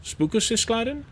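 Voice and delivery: Spookosiscladin squeaked up very high, with spook stressed like a ghost; teasing the word into ghost talk; playful spooky guess. Shown as a demonstration. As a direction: pitch Spookosiscladin way up as a joke guess. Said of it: "is it more like spookle?".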